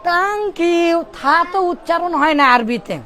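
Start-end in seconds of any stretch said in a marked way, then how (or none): 0.0-1.0 put-on Arabic-accented 'tank yoo'; hard T for TH, Arabic style. Teacher imitating Arabs who lack the th, Arabic accent. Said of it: "উচ্চারণ জানে না".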